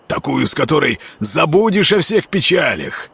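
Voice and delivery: sly, high miller voice, wheedling; coaxing miller. A narrator's reading. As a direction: lure him in like a sly peasant. Miller character coaxing his friend.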